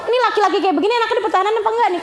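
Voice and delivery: very fast, dismissive asking; mock arrogant wife; arrogant mock question. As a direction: rattle it off smugly. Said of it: "Adanya kesombongan".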